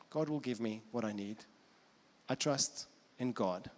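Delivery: calm, understated trust, long pauses; Jesus. Acted. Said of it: "And then Jesus saying".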